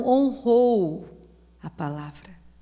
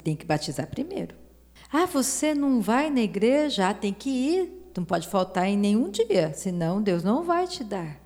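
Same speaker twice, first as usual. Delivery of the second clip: mocking religion. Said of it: "A religião fala".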